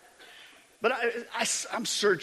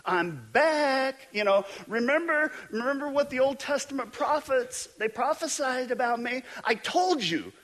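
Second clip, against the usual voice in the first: gentle imagined Jesus; 8 semitones higher than usual. Retold or imitated. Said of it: "expect Jesus to say something like".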